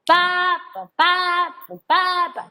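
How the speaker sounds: each "pa" pair with one loud hit and the other swallowed; exaggerated lopsided "pa-pa" rhythm demo; uneven accented eighths. Shown as a demonstration. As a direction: punch "pa" hard, clip its partner short. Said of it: "eso no son dos corcheas".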